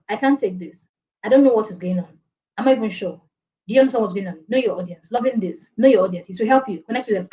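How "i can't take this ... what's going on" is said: flat counterexample. Shown as a demonstration. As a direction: say it with little energy. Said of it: "I won't say".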